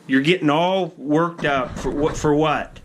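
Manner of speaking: high-pitched mild chiding of a pet; pet talk. Real, not acted. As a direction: question your worked-up pet up high. Chiding his worked-up pet.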